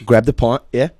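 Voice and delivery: =casual British pub talk; imitated British. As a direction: mimic British chat with tagged yeah. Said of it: "I like when British people say".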